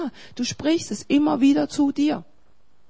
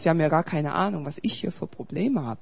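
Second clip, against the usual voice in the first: mock self-pitying complaint; 4 dB louder than usual. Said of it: "kommst du nach Hause und sagst".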